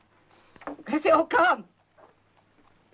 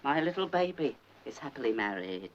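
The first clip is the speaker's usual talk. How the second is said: tender refusal; 4 semitones lower than usual. Retold or imitated. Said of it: "I said".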